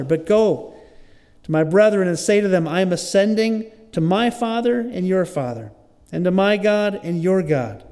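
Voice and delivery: projected, measured Bible reading; scripture reading. Acted. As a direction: read the passage aloud to a congregation. Reads scripture aloud.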